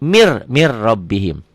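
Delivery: mir rabbihim read slowly, the N merged into R; slow demo reading. Shown as a demonstration. Teacher slowly shows students how the N merges. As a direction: draw out "mir rabbihim" with a doubled r. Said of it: "Jadi dari sini langsung ke sini".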